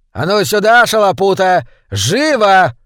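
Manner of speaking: громкий, выше, приказной крик; рявкни приказ; властный окрик. Acted. Хозяин гонит слугу. (хозяин громко подзывает Шалопуту)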